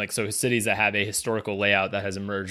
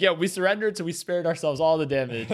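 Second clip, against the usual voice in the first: cheerful Prague local; 6 semitones higher than usual. Retold or imitated. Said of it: "of like".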